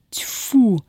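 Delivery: a short contemptuous spit; spitting. Acted. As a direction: spit the word out in disgust. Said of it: "сплюнула Устинья". (сплёвывает с презрением)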